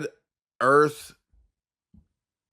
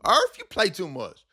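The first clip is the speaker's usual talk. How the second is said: laughing; 5 semitones higher than usual. Real, not acted. Laughing at the joke.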